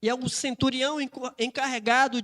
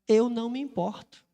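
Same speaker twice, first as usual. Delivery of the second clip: unruffled, understated answer; tranquil reply. Acted. Maria Madalena answering the armed centurion's threat, tranquil. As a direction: answer a threat with complete ease. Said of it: "Ela tava tranquila".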